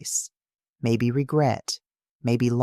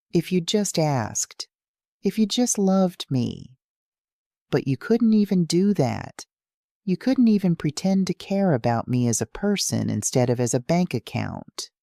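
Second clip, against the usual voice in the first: higher, tearful and pleading; crying; 6 semitones higher than usual. Acted. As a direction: let the voice climb through tears. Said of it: "and now I'm crying too".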